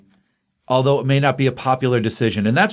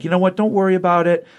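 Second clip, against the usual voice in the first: lightly voiced Wilma, higher and soothing; Wilma reassuring; 5 semitones higher, faster than usual. Wife consoling her laid-off husband, lightly voiced Wilma. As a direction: comfort him, lightly played. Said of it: "Wilma's like".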